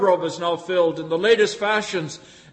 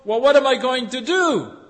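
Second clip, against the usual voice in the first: rich farmer musing; 6 semitones higher, 6 dB louder than usual. Acted. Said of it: "he says to himself".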